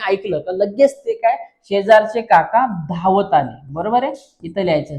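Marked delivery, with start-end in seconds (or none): 1.6-3.6 slow, separated words; slow dictation. Shown as a demonstration. Teacher giving pupils the next sentence, slow dictation. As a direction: read it out slowly for note-taking.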